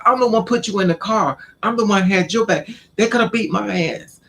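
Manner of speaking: high-pitched, aggrieved retort; worked-up self-defence, pitched high; indignant protest. Retold or imitated. Acted quarrel, defending herself.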